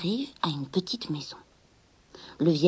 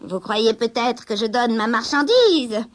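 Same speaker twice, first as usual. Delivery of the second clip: slow, louder spiteful retort; nasty; 2 semitones higher, 6 dB louder, slower than usual. Acted. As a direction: sneer at the girl. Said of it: "répondit méchamment la sorcière". (la sorcière répond méchamment, lentement)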